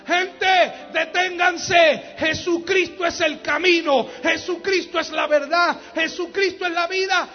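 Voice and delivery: loud, high, slow shouted cry; shouted proclamation. Acted. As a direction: proclaim it at full voice, stretching the words. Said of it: "gritar y llamar la atención para que digan".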